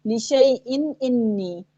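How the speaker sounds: slow recited "लिशैइन इन्नी", alif silent; shin joined to ya. Shown as a demonstration. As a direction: glide sh straight into y in "लिशैइन". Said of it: "शीन को या से मिला रहे हैं".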